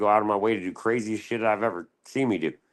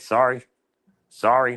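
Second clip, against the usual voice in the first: higher, louder fake sorry; sarcastic apology; mock apology; 6 semitones higher, 5 dB louder than usual. Mock apologizing to the staff, sarcastic.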